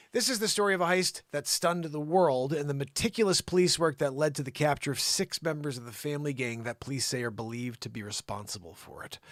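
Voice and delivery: measured report delivery, easing down at the end; news read. Acted. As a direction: introduce the crime story as a reporter. Reads a news story aloud.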